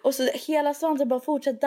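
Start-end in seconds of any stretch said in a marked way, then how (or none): 0.0-0.1 short mock scream; retold scream. Telling how the lizard's tail fell off, mock scream. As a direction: cry out as if horrified. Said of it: "började jag skrika och bara".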